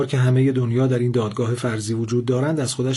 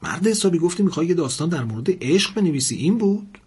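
angry; 4 semitones higher than usual. Acted. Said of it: "لاله عصبانی گفت".

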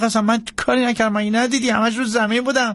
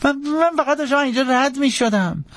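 high, hurried, stammering protest; frantic pleading; 12 semitones higher than usual. Acted. Jackson begging the marshal to believe him, frantic pleading. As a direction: beg up high, words tumbling out fast. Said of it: "بنا کرد به التماس کردن".

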